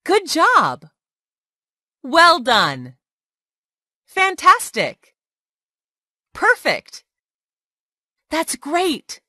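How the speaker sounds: high, loud, beaming cheers; enthusiastic praise. Shown as a demonstration. Teacher praising a student, excited and loud. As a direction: cheer the learner on like a proud teacher.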